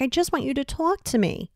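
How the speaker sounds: half-hearted plea, kept quiet; mock pleading. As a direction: act out a gentle beg. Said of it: "sort of pleading and begging".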